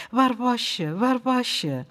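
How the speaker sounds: bubbling over with relief; excited joy. A narrator's reading. Boy reunited with lost dog.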